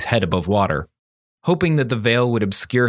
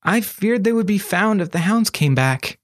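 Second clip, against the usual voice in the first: put-on higher, timid boy's voice, pleading; cowering apprentice; 10 semitones higher than usual. A narrator's reading. Apprentice shrinking from his raised hand, timid and high. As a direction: shrink back and make excuses.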